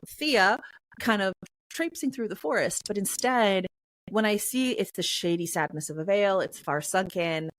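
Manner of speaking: usual speaking voice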